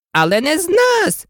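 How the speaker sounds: high, alarmed cry of protest. A narrator's reading. Oysters cry out at the Walrus, alarmed and high. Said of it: "всі устриці тут крикнули навкрич".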